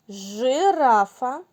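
жирафа drawn out slowly, stressing the Ж; slow жирафа with a long buzzing Ж; stretched word. Shown as a demonstration. Teacher slowly names pictures for children. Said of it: "Послухайте".

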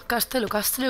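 "Castle" said "kás-te-lo", then "kást-lo"; "Castle" guessed at with an o ending; Castle as "CÁSTELO". Shown as a demonstration. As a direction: try out Spanish-style "Castle" endings in -lo. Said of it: "como se quiera pronunciar".

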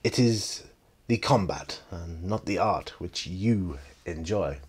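slow, measured film villain; a light imitation of a deliberate master; spaced-out, deliberate villain delivery; Mister Han. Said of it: "Han nods and goes".

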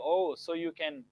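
mild surprise. Shown as a demonstration. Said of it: "It's not a question".

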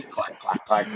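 dry clicking sounds from the throat; throat clicking noise. Retold or imitated. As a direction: click your throat like a bad laugh. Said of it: "You're just, like, throat clicking".

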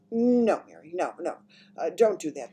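sharp, loud opening no; sharp command. A narrator's reading. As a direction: cut the maid off sharply. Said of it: "The Queen spoke so sharply".

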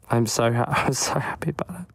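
too happy to get the words out; overcome with happiness. Real, not acted. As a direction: voice giving out mid-sentence, dropping to a whisper. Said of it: "that makes me so happy".

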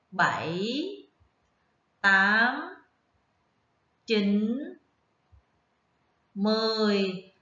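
put-on spaced-out counting for children to follow; slow counting aloud. Shown as a demonstration. Teacher counting slowly along with first graders. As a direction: count each number with a long pause between. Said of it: "cùng đếm với cô".

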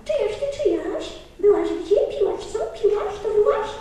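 a lapwing's nosy calls; lapwing calling. Acted. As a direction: call out like a prying lapwing. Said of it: "Czajka woła".

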